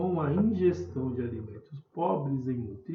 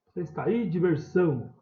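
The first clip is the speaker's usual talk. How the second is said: calling at the gate; 3 semitones higher, 5 dB louder than usual. Pretend. Calling at a house gate, mock calling out. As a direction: pretend call to someone inside, SÃO pushed in diversão. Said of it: "eu vou lá no portão".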